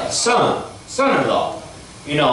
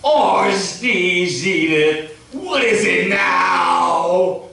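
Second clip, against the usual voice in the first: Archie Bunker; 7 semitones higher, much slower than usual. Retold or imitated. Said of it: "Archie walking up to her like".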